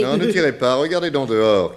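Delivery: high, urgent plea not to shoot; high-pitched frightened plea; panicked plea. Acted. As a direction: beg her not to fire. Held at gunpoint.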